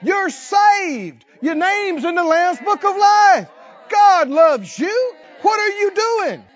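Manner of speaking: rally yourself out loud, half shouting; loud self pep talk. Pretend. Preacher showing how to scold yourself, in a loud rallying shout. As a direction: shout encouragement at your own soul. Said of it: "and say".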